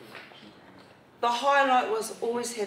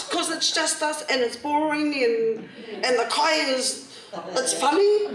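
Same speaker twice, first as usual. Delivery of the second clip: put-on kids' complaint, laughing; 4 semitones higher than usual. Kids explaining why they won't visit, laughing whine. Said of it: "I then said".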